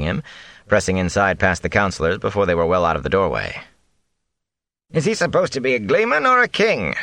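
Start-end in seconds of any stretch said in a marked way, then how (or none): 4.9-6.9 high, sneering annoyance; annoyed. A narrator's reading. Old councillor annoyed at the gleeman, sneering. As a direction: grumble it with contempt. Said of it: "Sen Bui asked in annoyed tones".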